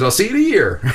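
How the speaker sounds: high, loud voice breaking into laughter; imitated emotional doctor. Doctor sending the healed patient off, high and laughing. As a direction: laugh through the doctor's happy send-off. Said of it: "He starts crying".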